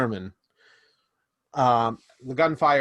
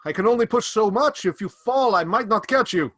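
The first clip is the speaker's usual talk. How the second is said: high, hurried NPC voice, a little louder; strained warning; 8 semitones higher, 5 dB louder than usual. Acted. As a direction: warn him you may drop him. NPC warns player during climb.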